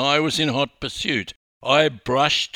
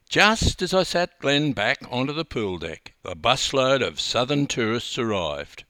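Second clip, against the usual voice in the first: usual speaking voice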